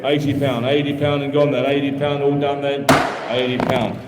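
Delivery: rhythmic, repetitive bid chant; auctioneer bid calling. Acted. Auctioneer taking bids from the room, steady patter. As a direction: keep the numbers rolling to the room.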